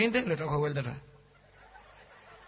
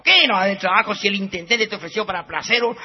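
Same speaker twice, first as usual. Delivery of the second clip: mild scolding; 3 semitones higher, 6 dB louder than usual. Retold or imitated. Girlfriend scolds the lazy man.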